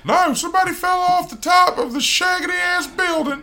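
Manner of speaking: high, excited announcer voice; excited commentary. Pretend. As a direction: call it like a ringside announcer. Mock wrestling commentary.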